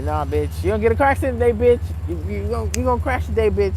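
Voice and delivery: retold hex yelled at the people testing her; loud cursing threat. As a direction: spit the curse at them.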